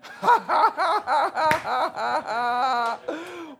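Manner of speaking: loud whooping laugh; a huge laugh, near a yell; big shouting laugh. Real, not acted. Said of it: "crowd hype".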